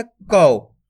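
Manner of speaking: कौ with a firm push on the au glide; pushed au vowel. Shown as a demonstration. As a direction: put some force into कौ, sliding to a low end. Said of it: "थोड़ा जोर लगा देंगे". (कौ पर थोड़ा जोर लगाकर)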